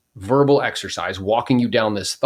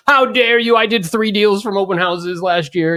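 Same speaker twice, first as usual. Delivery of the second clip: much higher pitched, offended huff; mock indignant outrage; 9 semitones higher, 4 dB louder than usual. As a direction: imitate a follower taking personal offence. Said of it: "people freak out".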